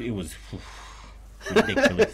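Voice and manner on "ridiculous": exclaiming. Real, not acted. Exaggerated comment on meat.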